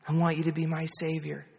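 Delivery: lightly voiced mother giving a prayer line; retold prayer, measured, for a child to repeat; mother leading prayer. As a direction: lead a child gently in prayer. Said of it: "You just pray after me".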